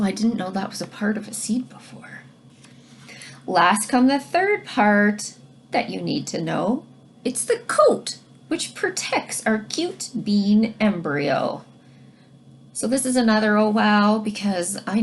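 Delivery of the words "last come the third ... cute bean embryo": put-on reading to children. Teacher reads rhyming book aloud.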